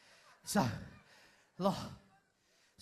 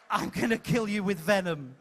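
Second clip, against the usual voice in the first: wrong take, laughing through the line; 2 semitones lower than usual. Shown as a demonstration. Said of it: "It's not".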